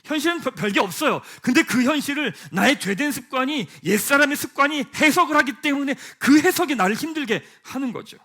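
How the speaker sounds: loud, driving sermon voice; preaching with rising force; fervent preaching. Acted. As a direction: press the point hard to the congregation.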